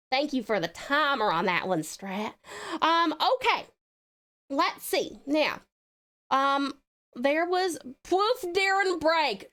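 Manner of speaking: put-on Southern drawl; Southern accent. Streamer thanking viewer for the timer, Southern accent. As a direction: keep the Southern twang going. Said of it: "now it's time for the accent redeem".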